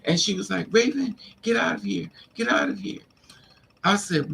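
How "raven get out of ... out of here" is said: high, mock yelled order; imitating her boss ordering her out; high-pitched retold shout; retold yelling.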